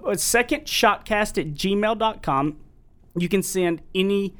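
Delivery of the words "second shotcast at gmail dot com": slow and clear. Shown as a demonstration. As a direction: spell out the address slowly. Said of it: "gives email address".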